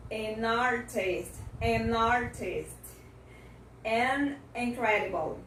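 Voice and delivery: careful model list, each AN joined to the next word, as in AN EXAMPLE; teacher's repeat-after-me demo linking AN to each word; linked pronunciation. Shown as a demonstration. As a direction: carry N into ARTIST, OFFER, INSULT. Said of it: "vai juntar a pronúncia com a palavra seguinte".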